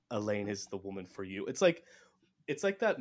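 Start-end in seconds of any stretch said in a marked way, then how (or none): 0.1-1.5 mock Aviendha. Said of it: "Aviendha comes over and goes".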